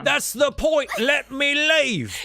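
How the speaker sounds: high, frustrated shout with a long-drawn last word; exasperated outburst. Acted. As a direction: demand to be let go, at your wits' end. Cornered sailor demands to go.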